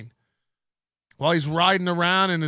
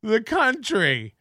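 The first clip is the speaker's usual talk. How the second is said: high, slow, drawn-out mimicry; hammed-up incredulous holler; mock exasperated shout; 5 semitones higher, much slower than usual. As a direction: stretch every word in exaggerated outrage. Mockingly echoing the clip just heard.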